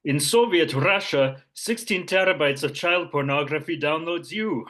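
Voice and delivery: mock Russian accent, half Scottish; hammy Russian accent. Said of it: "your Russian accent is".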